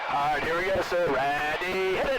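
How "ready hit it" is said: sharp shouted command; shouted callout. Real, not acted. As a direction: bark the call to start. Real maneuver call in jet.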